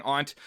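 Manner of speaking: "aunt" with a broad ah, like "ahnt"; broad vowel pronunciation. Shown as a demonstration. Host admits a habit, "aunt" said as "ahnt". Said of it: "In my day-to-day, I would say aunt".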